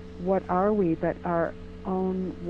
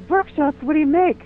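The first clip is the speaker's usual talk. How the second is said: incredulous; 9 semitones higher, 8 dB louder than usual. Retold or imitated. Man baffled by "workshops.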